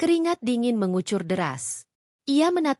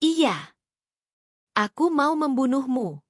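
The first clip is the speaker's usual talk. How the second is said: exploding in rage; 5 semitones higher than usual. Acted. Husband losing control in front of his mother, furious shout. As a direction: blurt out the confession in a burst of fury. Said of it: "Lalu Raka meledak".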